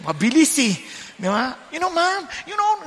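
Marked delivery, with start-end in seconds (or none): 1.7-2.9 put-on high quick child chatter; fast English-speaking kid. Preacher mimicking the child's rapid English, light high voice. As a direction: rattle it off like a fast-talking kid. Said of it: "mga ganyan".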